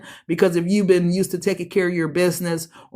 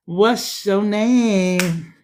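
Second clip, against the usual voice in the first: slow flirty pickup line; much slower than usual. Pretend. Flirting as admirer.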